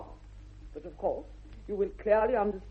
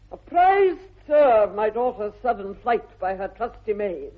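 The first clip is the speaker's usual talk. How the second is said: imperious outburst; 6 dB louder than usual. Acted. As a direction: sweep in with lofty indignation. Outraged matron opens her speech.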